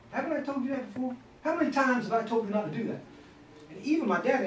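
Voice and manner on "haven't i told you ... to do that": stern father. Retold or imitated. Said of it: "when he'd say".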